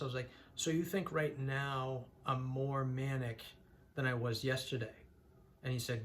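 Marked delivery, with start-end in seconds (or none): 0.5-4.9 deliberately subdued. Retold or imitated. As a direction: drag it out to seem less energized. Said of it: "I was talking like this".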